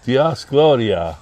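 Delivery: Diaz Gloria slow with a Spanish accent. Shown as a demonstration. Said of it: "How do you say that in the Spanish accent?".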